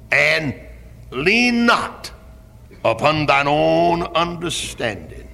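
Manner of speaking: slow, drawn-out declaiming of scripture; shouting verses. Real, not acted. Preacher proclaiming the verse to the church, slow and declaiming. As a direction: lean on every word like a pulpit proclamation. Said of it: "That's shouting verses".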